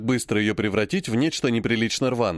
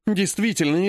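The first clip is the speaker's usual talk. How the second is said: gently reproachful; 5 semitones higher than usual. Acted. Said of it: "мягко, но укоризненно".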